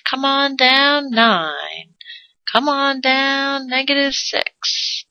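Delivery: hammed-up game show announcer; game show host call.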